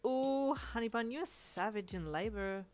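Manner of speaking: sassy wry drawl. A narrator's reading. Uncle teasing the mum, wry and sassy. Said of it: "with a wry smile".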